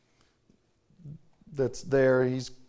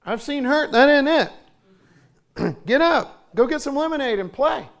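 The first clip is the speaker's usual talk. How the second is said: firm fatherly; 9 semitones higher, 5 dB louder than usual. Retold or imitated. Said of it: "I said".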